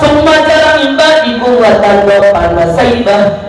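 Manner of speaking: drawn-out recited Arabic verse; Quran recitation. Acted. Preacher quoting scripture to the congregation, measured recitation. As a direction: recite the verse slowly, stretching the long vowels.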